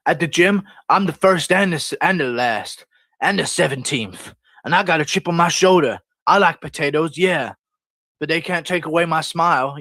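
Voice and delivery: lightly put-on fighter's interview voice; a touch of mock-earnest interviewee; Tony Ferguson. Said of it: "Tony Ferguson will say".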